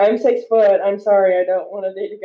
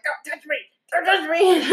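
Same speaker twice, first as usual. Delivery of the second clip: put-on higher, laughing child's plea; scared kid; 9 semitones higher than usual. Lost child telling strangers off, a hint of it, laughing. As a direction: push strangers away like a frightened little girl. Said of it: "people are, like, coming up to me, like".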